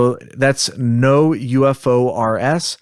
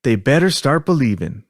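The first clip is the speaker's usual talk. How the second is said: put-on Southern accent; 3 semitones higher than usual. Podcaster reenacting an abduction witness's transcript, Southern accent. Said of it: "practice with our Southern accents".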